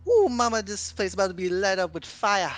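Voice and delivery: high, excited character voice; Gambit character voice. Acted. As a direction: play it like a cocky showman. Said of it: "what does Gambit's like".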